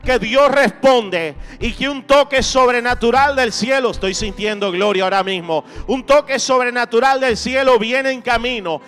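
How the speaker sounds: impassioned preacher rallying the congregation; fervent preaching. Real, not acted. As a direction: preach with driving, rhythmic conviction, building through repeated phrases. Predica con fuerza ante la congregación. (prédica ferviente y enérgica)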